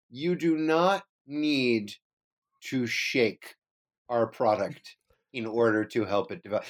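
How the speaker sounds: slow, dry corporate reading; mock-formal company notice; boring press release. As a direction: read it like a dull official statement. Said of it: "a real boring press release".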